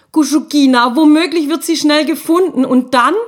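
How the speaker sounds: high, eager and breathless with worry; a small spirit bursting with alarm; excited little ghost. Acted. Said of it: "Guschuk war ganz aufgeregt".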